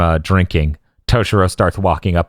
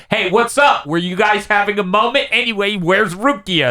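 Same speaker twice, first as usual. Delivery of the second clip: imitating Ichigo; 12 semitones higher than usual. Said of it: "He's like".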